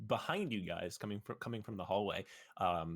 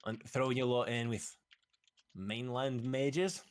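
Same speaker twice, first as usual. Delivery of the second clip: slow, contemptuous disbelief; mother sneering at her daughter's choice; disdainful mother; 4 semitones higher, 5 dB louder, slower than usual. Acted. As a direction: drag it out in scornful disbelief. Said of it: "the woman says".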